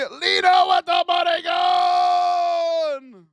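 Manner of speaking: high, loud, slow announcer yell; hype shout. Real, not acted. Streamer shouting out a viewer's money gun, slow and loud. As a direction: roar the name like a ring announcer.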